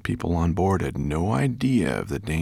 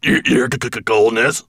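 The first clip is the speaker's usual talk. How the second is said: stuttering dwarf, raised in pitch; spluttering; 4 semitones higher, 6 dB louder than usual. A narrator's reading. Dwarf to his master in icy water, spluttering. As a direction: stammer it out as if spitting water. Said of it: "spluttered the dwarf".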